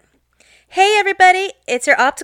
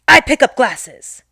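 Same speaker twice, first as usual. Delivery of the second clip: slow, louder stern demand; 2 semitones higher, 6 dB louder, slower than usual. Retold or imitated. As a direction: lay it down sternly, slowly. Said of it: "In a stern voice".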